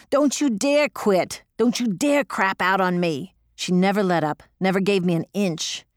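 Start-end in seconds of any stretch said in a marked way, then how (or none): 0.1-3.3 slow, hard-hit demand, leaning on dare; raw angry urging. Retold or imitated. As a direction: refuse to let her quit. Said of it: "She was getting pretty raw by then".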